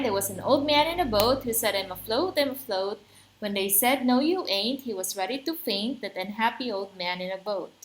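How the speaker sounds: quick sing-song recitation in triplet beats; rhythmic limerick reading. Shown as a demonstration. Teacher rereading the limerick so students appreciate the rhythm, brisk and lilting. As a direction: bounce through the verse on its stresses. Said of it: "you get to appreciate the rhythm".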